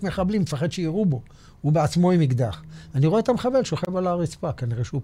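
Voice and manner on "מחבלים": usual speaking voice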